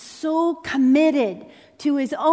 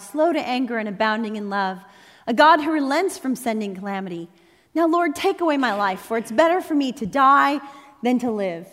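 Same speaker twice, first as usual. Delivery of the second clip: a touch of mock anger in the reading, louder at the start; Jonah yelling at God; 2 semitones higher, 3 dB louder than usual. Preacher reading Jonah's complaint to God, mildly indignant. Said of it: "he's yelling at God for his mercy".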